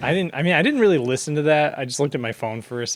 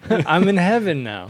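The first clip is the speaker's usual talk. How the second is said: ghostly parent voice; 6 semitones higher, 4 dB louder than usual. Retold or imitated. Voicing dead parent.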